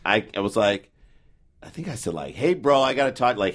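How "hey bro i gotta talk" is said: mock bro greeting. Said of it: "Words he's never used".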